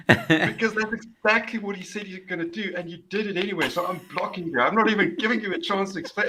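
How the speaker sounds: high-pitched, amused retort; acted exasperated dismissal; mock telling-off.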